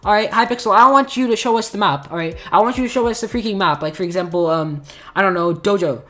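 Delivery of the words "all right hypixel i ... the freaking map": higher, louder exasperated demand; mad rant. Real, not acted. Gamer scolding Hypixel over hidden maps, mad. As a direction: plead angrily, voice pushed up high. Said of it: "I sound so mad at Hypixel".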